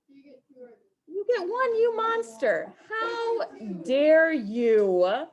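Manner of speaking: high, slow, hammed-up wail of outrage; fake-cry at the student like a wronged victim; mock betrayal. Teacher hams up a fake sob at a student choosing prizes.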